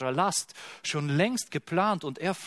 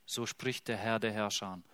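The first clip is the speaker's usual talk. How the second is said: softer, lower, gentle declaration; hushed proclamation; 4 semitones lower, 6 dB quieter than usual. Acted. Preacher rereads the prophet's formula, soft and reverent. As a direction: murmur the Lord's word reverently.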